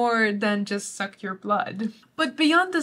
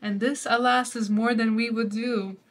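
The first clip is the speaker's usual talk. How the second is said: measured recitation over music; poem reading. Acted. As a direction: read it as verse, lingering on each line. Reads the poem aloud.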